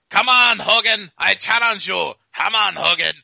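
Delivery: mock Japanese-accented wrestling challenge; Fuji. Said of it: "'cause the whole time he's".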